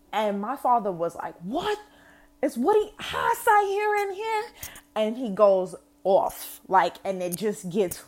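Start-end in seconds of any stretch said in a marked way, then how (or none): 1.4-4.4 mock thick Trini accent. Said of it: "the accent gets way thicker".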